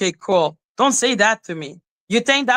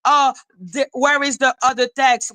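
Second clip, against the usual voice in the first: mildly excited mock quote, a little higher; mock eagerness, pitch raised; 4 semitones higher than usual. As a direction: imitate someone eagerly demanding. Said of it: "all excited saying".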